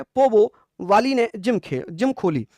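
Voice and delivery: slow, spelled-out mnemonic; slow dictation. Shown as a demonstration. Teacher dictating the trick to students, slowly. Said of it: "ऐसे लिखना".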